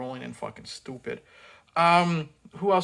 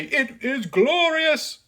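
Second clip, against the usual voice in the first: slow, much higher, hammed-up "It is glorious"; mock the villain's overblown line; hammy Shao Kahn; 10 semitones higher, 5 dB louder, much slower than usual. Reviewer mocking the villain's line, slow and hammy. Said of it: "when you say".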